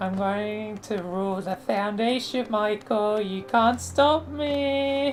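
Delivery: silly put-on boop-boop voice, me drawn out. Demonstrating the voices they can do, a villain line in a boop boop voice. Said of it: "like a boop boop voice".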